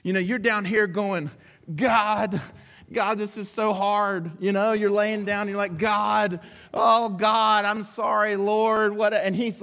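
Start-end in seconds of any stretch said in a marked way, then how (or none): 1.7-9.1 a hint of whiny pleading, God drawn out; mock whining to God. Lying down moaning to God, mock whiny pleading. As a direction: play the tired complainer moaning to God.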